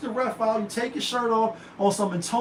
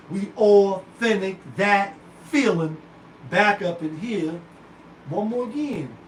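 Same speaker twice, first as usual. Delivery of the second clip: slow, louder, stretched show-host boast; hype sign-off; 4 dB louder, slower than usual. Real, not acted. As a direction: drag out each phrase like a tagline.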